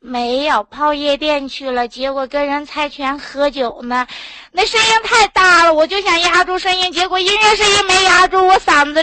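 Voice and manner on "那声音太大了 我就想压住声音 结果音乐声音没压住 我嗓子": raised, raspy voice; talking loud through a hoarse throat. Real, not acted. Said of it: "你小点声行不？".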